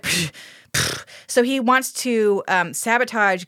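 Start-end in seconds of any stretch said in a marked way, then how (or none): 0.0-1.0 dismissive psh. Retold or imitated. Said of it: "boyfriend's like".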